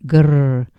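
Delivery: brief monk's growl, read out; a restrained, drawn-out "grrr"; animal-like growl. Acted. Obsessed monk voicing visceral dislike of Brother Lawrence, animal-like growl. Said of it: "utters an animal-like noise".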